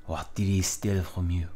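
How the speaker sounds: measured put-on French accent; Villanelle. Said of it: "gonna give Villanelle a French accent".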